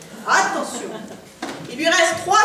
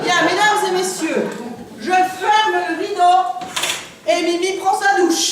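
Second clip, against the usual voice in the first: grand stage presenter voice; showman announcer. Acted. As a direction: call out to the crowd. Magician addressing audience.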